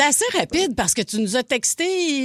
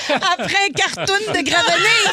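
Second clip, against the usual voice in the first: laughing; 7 semitones higher, 4 dB louder than usual. Real, not acted. Laughing at the impression.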